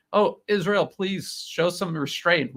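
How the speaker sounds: mock pleading. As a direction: imitate a half-hearted plea for show. Mock quote of US appeal to Israel.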